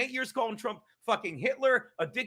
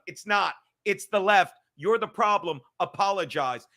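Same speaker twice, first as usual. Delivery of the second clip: louder, hammering each short line; loud angry rant; 6 dB louder than usual. Real, not acted. Streamer scolds the left, loud angry rant. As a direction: bark it like a demand.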